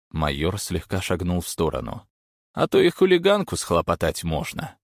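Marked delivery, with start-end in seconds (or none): 2.5-4.8 higher, pointed warning; stern warning. A narrator's reading. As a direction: warn him with a sly edge. Major warning thug.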